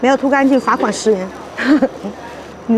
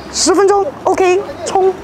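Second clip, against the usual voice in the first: excited rallying cry; 8 semitones higher, slower than usual. Real, not acted. Racing the clock to eat.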